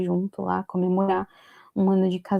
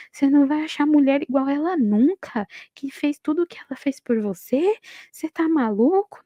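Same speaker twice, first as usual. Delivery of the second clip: raised, incredulous scolding of a brother; indignant scolding; 5 semitones higher than usual. Retold or imitated. Brother scolding him at the family meeting, higher and outraged.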